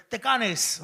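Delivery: exaggerated Park Ex accent; mock Park Ex accent. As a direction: mimic a Park Ex Greek accent. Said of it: "whenever he's talking to me, all I hear is".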